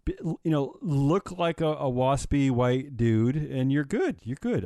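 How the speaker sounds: sarcastic praise, stretching out key words. Real, not acted. Host naming a mock winner of the week, sarcastic. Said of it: "I say this with sarcasm".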